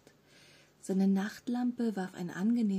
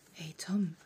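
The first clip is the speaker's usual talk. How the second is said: low, pleasantly raspy greeting; pleasantly rough voice; 3 semitones lower than usual. A narrator's reading. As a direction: say it with a friendly rasp. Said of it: "mit einer angenehm rauen Stimme".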